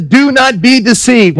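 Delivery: each word slow and weighted; slow emphatic scripture reading. Shown as a demonstration. Pastor reading the verse aloud to the congregation, slow and weighty. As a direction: read it slowly, like scripture. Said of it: "it says to us quite clearly".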